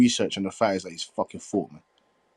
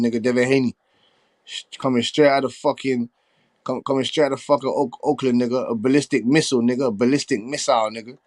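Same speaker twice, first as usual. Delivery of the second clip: hype; 3 semitones higher, 4 dB louder than usual. Real, not acted. Streamer hyping Haney back at heckler.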